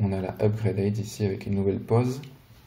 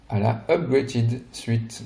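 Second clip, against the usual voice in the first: careful, slow French-accented English on "Upgraded Suite"; slower than usual. Real, not acted. French reviewer slowly names the English suit, French-accented English. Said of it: "mon accent anglais".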